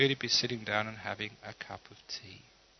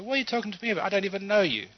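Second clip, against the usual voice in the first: indignant surprise; 7 semitones higher, 3 dB louder, much faster than usual. Acted. Insulted by a stranger in market.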